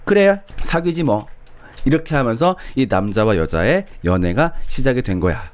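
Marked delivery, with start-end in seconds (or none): 0.0-1.3 high, slow, lightly voiced careless woman; indifferent girlfriend. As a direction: shrug it off as the bored girlfriend. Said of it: "결국 여자가". (높고 느리게 시큰둥한 여자)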